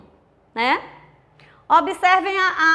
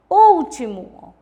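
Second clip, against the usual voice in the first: "último" with a loud, long ÚL; ÚÚÚL-ti-mo, slowly; stress on antepenultimate syllable; 7 dB louder, much slower than usual. Shown as a demonstration. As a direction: punch the first syllable of "último". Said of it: "a antepenúltima sílaba".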